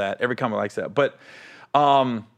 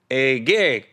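lightly attempted Boston accent; 2 semitones lower than usual. Club manager calling the comic over, rough Boston accent. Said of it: "got that Boston accent".

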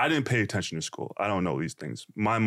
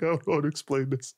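mildly panicked, higher voice; retold freak-out; 4 semitones higher than usual. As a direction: replay your fluster at the desk. Retelling his freak-out at reception.

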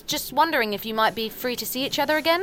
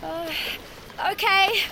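in ice cold water; 12 semitones higher than usual. Acted. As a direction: shriek at the freezing sea. Wading into cold sea.

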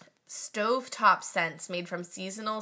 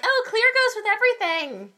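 airy quote; 13 semitones higher, 7 dB louder than usual. Retold or imitated. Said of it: "I'm like".

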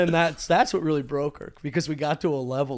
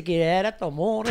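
fake Italian. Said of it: "Fake Italian".

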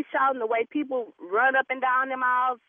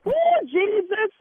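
louder, slower Oh Jesus; loud exasperated Oh Jesus; 5 semitones higher, 4 dB louder, slower than usual. Acted. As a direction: cry out Jesus in frustration. Exasperated at caller.

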